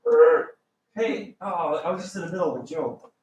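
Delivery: quick, fast mock fluster; mock interrupted joker. Teacher acting out being interrupted while joking, fast. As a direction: act caught mid-joke. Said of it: "you go".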